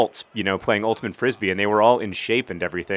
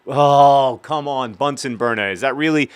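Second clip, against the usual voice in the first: frustrated outburst; 4 semitones higher than usual. Real, not acted. Gamer yelling at the computer AI, frustrated. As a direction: scold the game for a bad pass. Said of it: "I'm getting a little frustrated".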